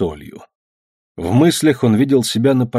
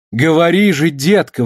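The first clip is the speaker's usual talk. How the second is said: louder and higher plea; mother torn between worry and annoyance; urging the child to speak; anxious exclamation; 6 semitones higher, 3 dB louder than usual. Acted. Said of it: "воскликнула она наконец".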